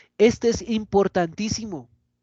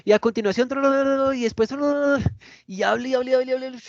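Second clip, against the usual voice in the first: higher-pitched nonstop gabble; no pauses; 7 semitones higher, faster than usual. Shown as a demonstration. Teacher mocking a speaker who talks on and on, no pauses. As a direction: rattle on into gibberish without breathing. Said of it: "No hubo una sola pausa".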